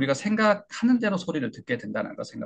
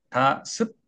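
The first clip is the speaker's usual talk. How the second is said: 가습 read level, both syllables on one pitch; much slower than usual. Shown as a demonstration. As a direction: say 가습 with no stressed syllable. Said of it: "업다운이 없는 거죠".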